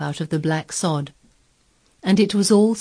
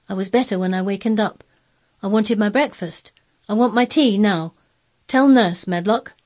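put-on higher, demanding child; bossy young master, building to a louder command; imperious boy Colin; 5 semitones higher, 4 dB louder than usual. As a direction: order the servant about.

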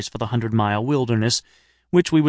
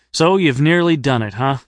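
a trifle inane; 3 semitones higher, 4 dB louder than usual. Acted. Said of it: "a trifle inanely".

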